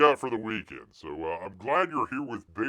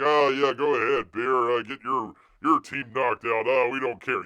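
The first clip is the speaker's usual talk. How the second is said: louder, mock-indifferent jeer; mock dismissive; 3 semitones higher, 6 dB louder than usual. Host imitating rival fans who don't care, mock dismissive. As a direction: brush him off with a loud, sarcastic go-ahead.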